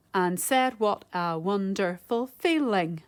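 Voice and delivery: slow, separated syllables; measured syllable-by-syllable reading; slow syllable count. Shown as a demonstration. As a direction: spell out the beats slowly. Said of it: "if I say it slowly and count the syllables".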